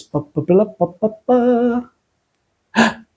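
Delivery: playful mock fanfare. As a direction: sound out a silly little drumroll. Playful drumroll before showing the soap.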